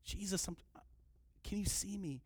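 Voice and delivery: soft, tentative plea; timid little call. Acted. Preacher mocks a too-polite beggar, timid soft plea. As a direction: ask meekly, hardly making a sound. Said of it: "No, he cried out".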